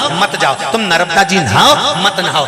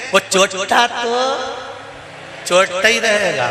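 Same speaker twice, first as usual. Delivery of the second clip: slow deliberate emphasis; 4 semitones higher, slower than usual. Shown as a demonstration. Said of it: "अरे बोलो तो जम के".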